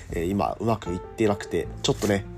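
raspy sore throat; hoarse voice. Real, not acted. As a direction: speak through a scratchy throat. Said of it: "喉がガラガラですが".

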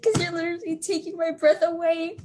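cheesy pickup line. Pretend. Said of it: "history pickup lines".

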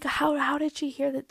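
high, incredulous protest. Retold or imitated. To the coach, baffled how she was overheard: high incredulous protest. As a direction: ask it like it makes no sense.

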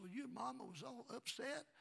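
a hint of a small daughter; lightly voiced child.

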